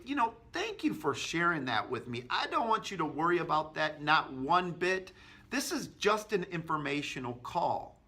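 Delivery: agreeable and reassuring, easing on "not one bit". Shown as a demonstration. Agent reassuring a worried customer, agreeable tone. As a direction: soothe the worry, then move on. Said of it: "with an agreeable tone".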